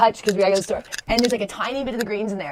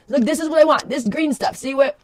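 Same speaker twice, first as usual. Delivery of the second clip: higher, louder demanding bunny voice; voicing the bunny demanding; 6 semitones higher, 5 dB louder, slower than usual. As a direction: insist loudly, as the rabbit showing what he wants. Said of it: "So he's like".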